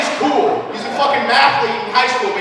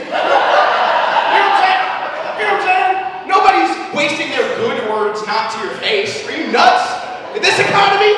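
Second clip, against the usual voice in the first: ordinary talk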